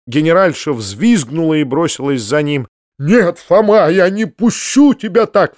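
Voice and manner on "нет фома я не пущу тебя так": urgent, high raised cry. A narrator's reading. Uncle refuses to let Foma leave, crying out. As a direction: cry out to stop him, higher and louder. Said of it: "вскричал дядя".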